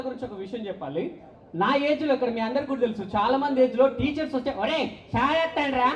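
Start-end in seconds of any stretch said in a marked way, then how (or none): 4.6-5.9 put-on kids calling out. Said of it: "అన్న కుర్తో ఆడుకునేది".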